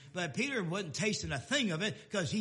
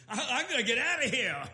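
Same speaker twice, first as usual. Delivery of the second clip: laughing Peter; 4 semitones higher, 5 dB louder, faster than usual. Retold or imitated. Peter voiced fleeing, laughing.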